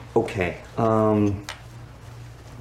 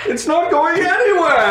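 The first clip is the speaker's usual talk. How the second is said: much higher, laughing; 5 dB louder than usual. Real, not acted. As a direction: say it cracking up. Laughing high.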